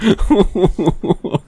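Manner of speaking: ordinary delivery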